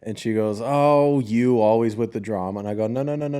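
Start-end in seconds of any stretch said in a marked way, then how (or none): 0.6-2.6 mock dismissive mother. Mother waves away her child's upset, mock dismissive. 2.9-3.4 retold firm refusal. Cutting off mother in retold quarrel.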